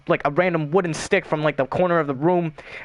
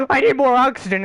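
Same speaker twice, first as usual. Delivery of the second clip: a higher, louder whiny plea; mock desperate teammate; 8 semitones higher, 4 dB louder than usual. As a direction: beg for air like a needy teammate. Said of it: "two seconds later".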